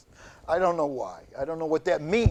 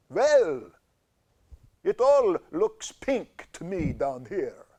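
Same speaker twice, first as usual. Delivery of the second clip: louder, lightly Lugosi-like drawl; talking cancer voice; 2 semitones higher, 4 dB louder, slower than usual. Acted. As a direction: voice the tumor. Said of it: "Your voice reminds me of Bela Lugosi".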